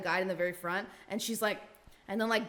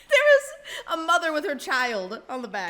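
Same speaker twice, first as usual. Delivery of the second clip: words broken by laughter; giggling while telling it; laughing through words; 5 semitones higher, 3 dB louder, slower than usual. Real, not acted.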